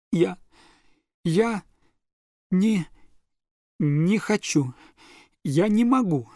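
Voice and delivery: high, halting words before the sobs burst; breaking into sobs. Acted. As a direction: stammer out the refusal as tears break through. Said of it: "сдержанные рыдания ... разразились".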